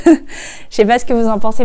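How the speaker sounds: loud, amused YouTuber patter; mock YouTuber. Vlogger teasing herself as a real YouTuber, mock YouTuber. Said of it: "chez la vraie youtubeuse".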